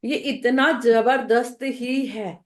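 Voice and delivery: slow, deliberate delivery; speaking slowly. Real, not acted. Teacher explaining switch words to the class, slow and deliberate. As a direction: draw each word out calmly. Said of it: "इतने धीरे बोल रही हूँ ना".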